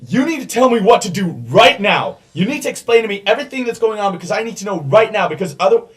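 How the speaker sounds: loud, high, frantic pleading; a hostage-taker begging for answers, loud and high; panicked Ironmouth. Acted. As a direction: rattle it out fast and desperate. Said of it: "he's like".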